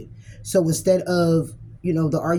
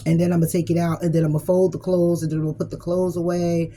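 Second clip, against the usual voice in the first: mock complaining partner. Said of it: "it's like".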